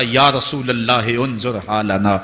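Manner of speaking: measured, drawn-out devotional quotation; recited supplication. Retold or imitated. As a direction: recite the retold plea low and unhurried. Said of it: "جنہوں نے کہا تھا".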